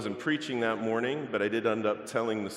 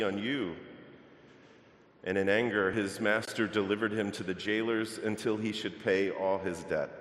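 measured, solemn Bible reading to the congregation; scripture reading. Acted. Reads the Gospel passage aloud.

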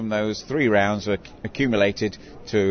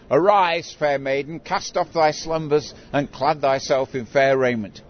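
proclaiming like a town crier; 3 semitones higher, slower than usual. Retold or imitated. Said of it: "I stood beneath the bride's bedroom window shouting".

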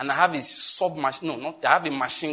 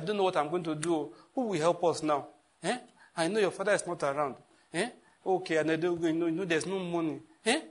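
soft, despairing helpless voice; playing helpless; 5 dB quieter than usual. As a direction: sound lost and defeated. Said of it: "the helplessness in your voice".

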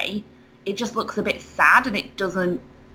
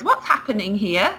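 open teacher question. Retold or imitated. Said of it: "a wonderful open".

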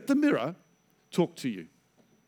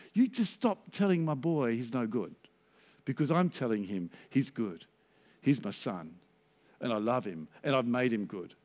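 softer, lower, quietly firm; protective fatherly assurance; 7 semitones lower, 6 dB quieter than usual. Retold or imitated. Father defending his boy to his accuser, quietly assuring. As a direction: imitate a father quietly standing up for his son.

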